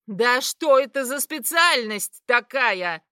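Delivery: loud, slow shriek; shrieking question. A narrator's reading. Mother shrieking about the specialty. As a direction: shriek it at him. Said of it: "заверещала мать".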